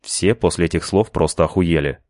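ordinary delivery, nothing marked

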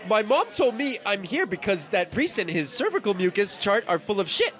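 attempted Canadian accent. Contestant struggling through a card in a Canadian accent. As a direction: have a go at sounding Canadian. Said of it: "the hardest accent".

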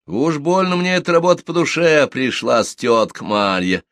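high, merry comeback; cheerful retort. A narrator's reading. Plump young woman answers aunt's teasing, cheerful. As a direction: toss it back gaily, drawing out the end. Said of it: "весело отвечает красная".

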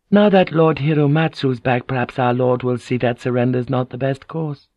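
a hint of a courteous noblewoman; lightly voiced hopeful lady. Lady advising on her lord's surrender, lightly voiced and hopeful.

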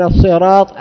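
الصراط read with a light sin, as sirat; sin for sad. Shown as a demonstration. Teacher showing the sin reading of the path. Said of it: "إبدال الصاد سينا".

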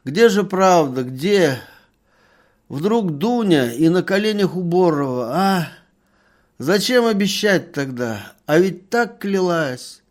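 put-on loud, high tearful drunken pleading; drunken weeping complaint. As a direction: sob out the complaint to the merchant. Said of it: "плакал горько пьяными слезами". (пьяная жалоба сквозь слёзы, громко и высоко)

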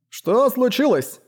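high, slow, befuddled question; dazed mumbling. A narrator's reading. Dazed landholder asks what happened, muttering. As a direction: ask slowly in a lifted, bewildered voice. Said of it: "пробормотал Отто".

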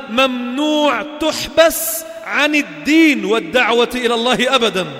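loud, slow, driving sermon voice; forceful preaching. Acted. Preacher warning the congregation, loud and slow. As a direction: hammer each word home to the crowd.

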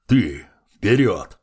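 slow, heavy command; slow commanding undead. A narrator's reading. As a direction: order it slowly, with weight. Undead lord commands creature.

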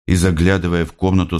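usual speaking voice

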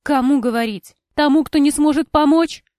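bitter retort. A narrator's reading. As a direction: spit the question back at her. Cora quarrels with former friend.

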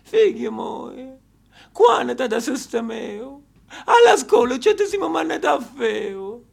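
slow, lightly voiced nagging mother; imitating his mother. Mother nagging her tired son when he gets home, lightly voiced. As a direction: drawl it out like his complaining mother. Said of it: "mia madre ... col suo solito ritornello".

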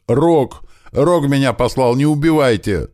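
high, loud desperate pleading; hit hard crying out. Acted. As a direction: beg for your life in pain. Bandit in pain, begging.

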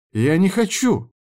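high pleading protest; protesting cry. A narrator's reading. Woman resisting assault. (высокий испуганный протест)

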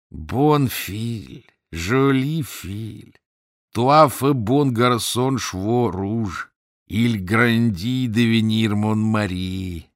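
slow, slurred pidgin French; drunken queen voice. Acted. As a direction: croon it slowly, tipsy giantess.

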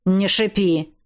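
a man grumbling at his captive; grumbling Viktor. A narrator's reading. Captor grumbling at the woman in his car. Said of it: "бурчал он".

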